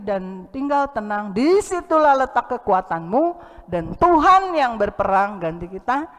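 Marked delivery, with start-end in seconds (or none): 3.7-6.1 louder, driving every word home; rousing preacher's declaration; forceful preaching. Acted. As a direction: proclaim it to the church. Preaching climax.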